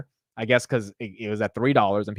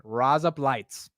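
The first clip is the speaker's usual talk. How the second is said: slow Australian accent demo; much slower than usual. Shown as a demonstration. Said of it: "in an Australian accent".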